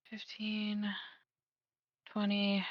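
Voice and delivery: counting softly to self; whispered counting. Real, not acted. Counting squares under breath.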